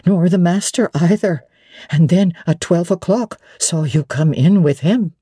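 a hint of a flustered elderly widow; lightly voiced old lady, puzzled and hesitant; bewildered old woman questioning Jane gently; old housekeeper. Mrs Fairfax voiced lower.

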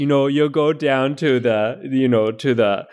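Midwestern mom giving folksy advice; Midwestern mom accent. Acted. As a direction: answer like an understanding Midwestern mom. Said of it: "answer as a Midwestern mom".

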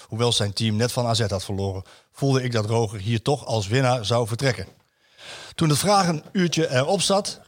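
storytelling read of a column; a host reading a newspaper piece to colleagues; reading aloud. Acted. Reads a written column aloud.

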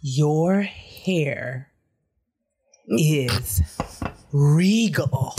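a hint of a breathy-hushed awed fan; gushing store boy. Clerk gushing over her hair, lightly mock awed. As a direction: lightly play the starstruck clerk. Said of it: "boy working Trader Joe's come up to me".

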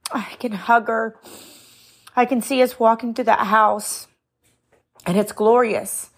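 choked up with fond memories, halting between phrases; real tearful voice. Real, not acted. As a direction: hold back tears while remembering mama. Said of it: "I'm grabbing myself a tissue".

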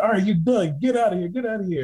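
mock stern bartender kicking him out. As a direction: throw him out sharply.

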